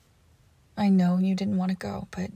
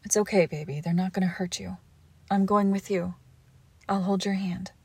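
soothing whisper. Acted. Reassuring partner before paramedics.

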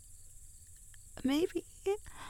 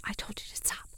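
whispering; faster than usual. Acted. Tickled while whispering.

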